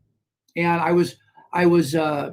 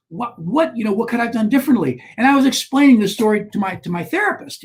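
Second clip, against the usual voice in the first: animated; 2 semitones higher, faster than usual. Real, not acted. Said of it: "you can see now I'm a little bit animated".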